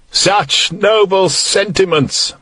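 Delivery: slow, drawn-out sneer; mocking. A narrator's reading. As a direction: savour each word with contempt. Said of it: "mocked Landis".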